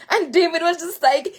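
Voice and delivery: telling it while half laughing, half crying; laughing through tears. Real, not acted. Retelling David's joy, laughing through real tears. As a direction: voice cracking high with laughter and tears. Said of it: "real emotion while retelling".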